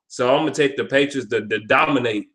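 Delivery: stumbling over the words; stuttering. Real, not acted. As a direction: stutter and trip on the start of words. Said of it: "I'm stuttering".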